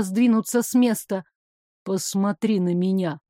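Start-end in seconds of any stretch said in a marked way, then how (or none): 1.8-3.2 commanding. Acted. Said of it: "приказал он".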